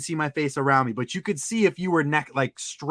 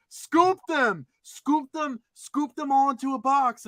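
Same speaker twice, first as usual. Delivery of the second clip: high-pitched mock woman's command; imitated bossy woman; 9 semitones higher, slower than usual. Storyteller mimics lady telling him to grab toys, bossy. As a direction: pitch it way up, urging insistently.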